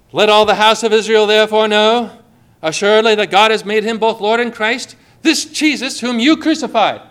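loud, declaiming Peter's words to the crowd; proclaiming preacher. Retold or imitated. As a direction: thunder it out like an apostle preaching. Quoting Peter's Pentecost sermon.

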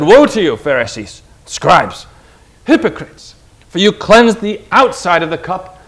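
Jesus rebuking the Pharisees, a moderate stern roar; sharp rebuke. Retold or imitated. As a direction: denounce them firmly, a preacher's roar held back. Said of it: "He rebuked them sharply and roared at them".

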